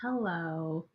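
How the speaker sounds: muffled and far from the mic; sounding boxed in and distant; inside a box. Real, not acted. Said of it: "you sound like you're in a box this morning".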